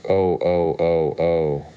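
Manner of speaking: hammed-up whistling wails; mock steam-engine shrieks, read aloud; screaming. A narrator's reading. The Queen wailing over her finger, hammed-up shrieks. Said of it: "Her screams were so exactly like".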